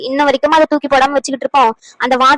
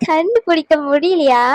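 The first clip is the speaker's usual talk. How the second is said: slow, savoured repeat of கண்டுபிடிக்க முடியலையா; gloating; slower than usual. Acted. Schemer savours that they couldn't find out, slow gloating repeat. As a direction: let கண்டுபிடிக்க முடியலையா roll out slowly in triumph. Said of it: "சந்தோஷத்தை உச்சியில இருக்கேன்".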